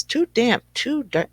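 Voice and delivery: squeaky high little mouse cry; mouse screams. Acted. Mouse complaining in the cold cave, high squeak. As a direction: pitch it up like a tiny fretful mouse. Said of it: "The mouse screams".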